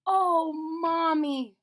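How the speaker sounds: put-on high, slow, excited child voice; a little girl begging her mother; girl pleading, high and bright. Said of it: "she said".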